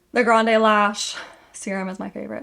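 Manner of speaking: breathless, panting a little; out of breath. Real, not acted. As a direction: talk while catching your breath. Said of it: "I'm out of breath".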